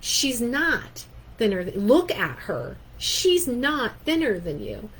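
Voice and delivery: loud, slow disbelief; incredulous husband. Retold or imitated. Husband stunned by the coworker's insult, slow and loud. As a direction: stop short in disbelief. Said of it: "he goes".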